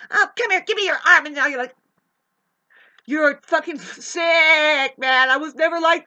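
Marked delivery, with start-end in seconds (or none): 0.1-1.3 a higher, coaxing mock mother; mimicking a mother pulling her child close; mock clingy mother. Ranter mimics a clingy mother, coaxing and higher. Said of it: "your mother saying".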